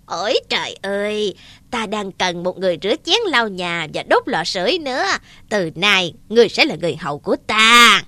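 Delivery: a hint of a gloating giantess. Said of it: "Mụ ta cười khoái chí".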